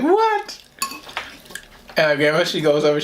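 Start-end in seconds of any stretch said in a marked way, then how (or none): 0.0-0.6 shocked what. Retold or imitated. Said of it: "she's like".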